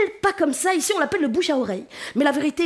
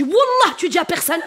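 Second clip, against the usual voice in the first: emphatic wallah; 2 semitones higher, 4 dB louder than usual. Retold or imitated. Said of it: "version arabe comme c'est encore plus fort".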